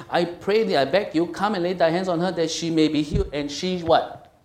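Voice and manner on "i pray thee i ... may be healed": urgent, raised-voice entreaty; earnest, insistent begging; desperate pleading. Acted. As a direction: plead it loudly, begging for help. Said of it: "he was desperately pleading to Christ".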